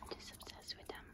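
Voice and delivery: hushed unvoiced whisper of adoration; adoring whisper. Real, not acted. Owner gushing over her puppy in a whisper. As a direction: whisper it like he's asleep in your arms.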